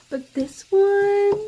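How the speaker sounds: high squealing gush; squealing excitement. Real, not acted. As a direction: squeal about how good it is. Gushing about a favourite podfic.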